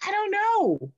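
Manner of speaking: high-pitched retold wail; mock boo-hooing. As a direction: imitate yourself blubbering helplessly. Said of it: "I just started boo-hooing".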